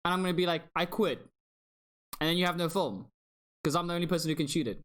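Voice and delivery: high-pitched mock-indignant comeback; playful arguing. Real, not acted. Playful argument over who shouts at whom.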